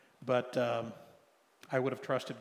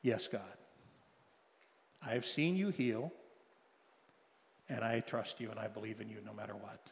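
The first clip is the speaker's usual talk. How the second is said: soft, lower, humbled answer; quiet surrender to God; 4 semitones lower, 6 dB quieter than usual. Retold or imitated. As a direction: yield quietly, head bowed. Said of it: "I put my head down".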